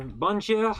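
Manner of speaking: slow, badly faked French accent; terrible French accent. Streamer greeting a viewer in French, poor French accent. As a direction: have a clumsy go at a French accent. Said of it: "My French accent is terrible".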